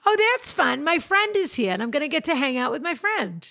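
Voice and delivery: a little lift of delight, high on the first "oh"; pleased as a dog at the door, lightly acted; happy little burst at a partner coming home; mildly excited. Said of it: "still get excited just a little".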